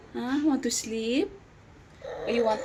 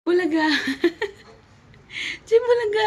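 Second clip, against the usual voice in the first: louder, higher peekaboo call; playful peekaboo; 7 semitones higher, 3 dB louder than usual. Real, not acted. Peekaboo surprise to baby.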